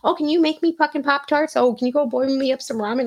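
put-on high, fast, pleading kid voices; imitating needy kids. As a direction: pile on the whiny requests like a crowd of kids. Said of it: "line of kids just lined up, like".

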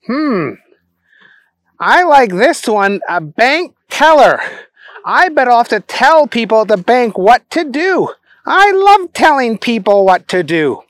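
high, silly simpleton voice; Booger. Acted.

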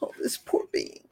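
hushed, whispered pitying coo; overdone pitying whisper; mock pity. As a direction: pity them in a syrupy hush. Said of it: "people do it all the time".

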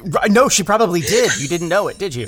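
high laughing tease. Real, not acted. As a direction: laugh through the joke. Joking laughter about Tanya.

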